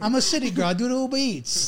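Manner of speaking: lightly voiced Long Island city girl; a hint of a Long Island city girl; Long Island accent. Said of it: "Long Island".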